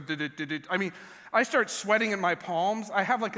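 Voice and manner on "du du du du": heartbeat noise. Retold or imitated. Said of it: "my, literally starts going".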